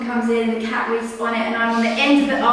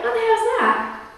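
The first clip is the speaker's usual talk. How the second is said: higher, startled blurt of confusion; a sudden baffled what-was-that; startled exclamation; 10 semitones higher than usual. Retold or imitated. Hearing a squeak as the hearse arrives, a startled higher blurt.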